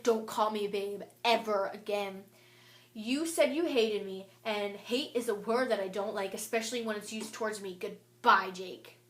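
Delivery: firm, emphatic retold telling-off; mad. Girl retelling her reply to Jake, mad. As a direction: tell them off with punched, measured words. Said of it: "I was so mad".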